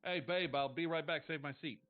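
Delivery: a hint of a smug cheat; Paul to his date. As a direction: toss it over your shoulder. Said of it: "he goes".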